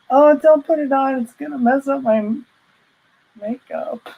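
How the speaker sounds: high, squeaky fussy protest, quick in the middle; mock prissy panic. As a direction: fuss like someone precious about her makeup. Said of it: "You're such a powder puff".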